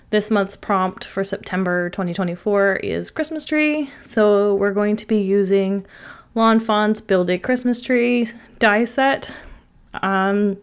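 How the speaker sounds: blocked nose from a cold; talking through a stuffy nose. Real, not acted. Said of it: "sorry if I sound a little stuffy".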